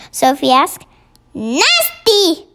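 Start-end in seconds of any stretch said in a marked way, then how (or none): 1.3-2.5 higher-pitched outburst of protest; indignant cry. A narrator's reading. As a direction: cry out in offended disbelief. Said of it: "cried the B F G".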